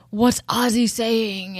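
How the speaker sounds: slowed, drawn-out question; lightly voiced puzzled onlooker. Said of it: "when they were like".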